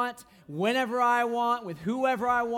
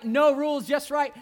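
excited shout; 5 semitones higher, 6 dB louder than usual. Retold or imitated. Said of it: "it's like".

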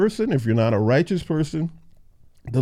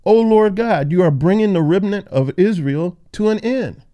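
raised, higher-pitched plea in reading; crying out loudly; 5 semitones higher, 5 dB louder than usual. Acted. Preacher reading Ezekiel's plea to God, crying out loudly. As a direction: read it as an outcry to God. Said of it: "cried out loudly".

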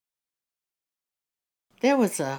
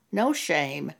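normal talking voice

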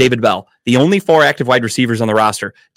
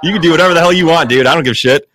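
laughing through the words, quick and a bit higher; 5 semitones higher than usual. Real, not acted. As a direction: tease him while cracking up. Laughing while teasing co-host.

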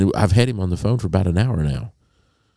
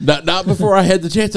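higher, louder, laughing mid-line; laughing retelling; 14 semitones higher, 5 dB louder than usual. Retold or imitated. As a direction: laugh while telling the comeback. Retold phone argument, laughing.

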